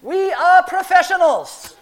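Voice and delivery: high, booming shout down from the roof; loud, comic announcement of reassurance; yelling back. Acted. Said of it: "And I yell back down".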